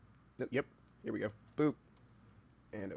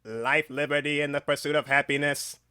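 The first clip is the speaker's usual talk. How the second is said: lightly voiced statesman, louder; Thomas Jefferson; 6 dB louder than usual. Streamer warming up a Jefferson voice, lightly projected statesman. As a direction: project it like a founding father, lightly. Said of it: "let me get my good voice going".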